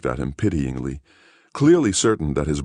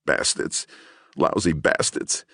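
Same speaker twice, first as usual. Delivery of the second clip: weeping curse; 3 semitones higher than usual. Acted. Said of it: "Gerlich wept".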